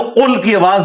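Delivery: emphatic tajweed قل; reciter's qaf. Shown as a demonstration. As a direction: make the ق of قل sound clearly, as in recitation. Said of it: "جب تک کہ وہ اس طریقے سے".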